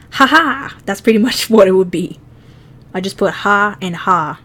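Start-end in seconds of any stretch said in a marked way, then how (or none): 0.1-0.8 higher, louder fake "ha ha"; a loud mock laugh in two beats; put-on laugh. Shown as a demonstration. Showing how he would laugh in Japanese, put-on laugh. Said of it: "Make him laugh in Japanese".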